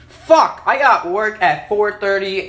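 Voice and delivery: sudden loud, high curse; frustrated shout. Real, not acted. Alone in his room, dreading his late work shift, real angry shout. Realizes he has work tonight.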